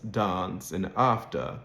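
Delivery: dance and after with a long ah; Southern British dance, after; British broad A. Shown as a demonstration. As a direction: say dahnce, ahfter. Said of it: "Southern Standard British English".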